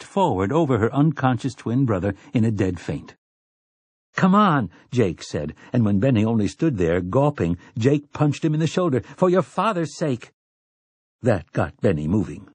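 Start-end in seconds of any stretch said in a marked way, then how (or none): 4.1-4.7 urging. A narrator's reading. Jake urges his gaping friend. 9.2-10.3 exasperated urging. A narrator's reading. Jake punches Benny to rouse him.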